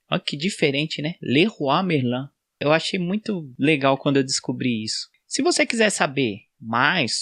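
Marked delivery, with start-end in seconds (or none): 1.2-2.3 Leroy Merlin slow, as "Lerruá Merlã"; Leroy Merlin in French, "Lerruá Merlã"; French pronunciation. Shown as a demonstration. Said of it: "a pronúncia correta". (Leroy Merlin em francês, "Lerruá Merlã")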